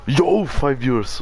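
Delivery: thrilled at the viewer count; excited. Real, not acted. Streamer sees his viewer count.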